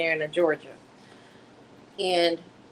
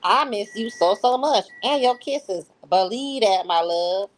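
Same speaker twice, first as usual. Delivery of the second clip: higher, louder read of a loving text, the voice later redone; a first try at the lover's voice, pitched up and pushed louder; wrong voice first take; 4 semitones higher, 4 dB louder than usual. Acted. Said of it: "I'm sorry, I messed that up".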